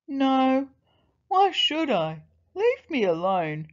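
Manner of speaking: lion telling someone off; grumpy lion. A narrator's reading. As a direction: refuse irritably as a lion, starting loud. Lion grumpily refuses to help.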